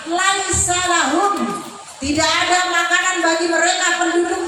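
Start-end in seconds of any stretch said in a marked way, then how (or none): 0.1-1.3 Qur'an recitation. Real, not acted. Repeats verse before translating it.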